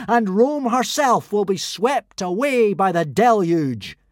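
loud, high victorious proclamation; triumphant speech. Acted. Fake god's final speech to the Romans. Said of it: "made his final speech".

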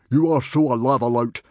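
high, very loud insistence; exclaimed accusation. A narrator's reading. Stoic insists the stranger is an enemy, shouting. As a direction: shout him down. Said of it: "exclaimed Stoic".

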